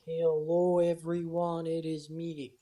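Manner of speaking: slow, robotic automated voice memo; robot voice, stiff and slow. Real, not acted. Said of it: "automated voice memo thing for a second there".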